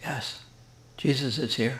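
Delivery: gentle, unhurried, slow and soft. Retelling a grandmother answering her granddaughter, in a retold slow, soft reply. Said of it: "in a slow, soft voice said".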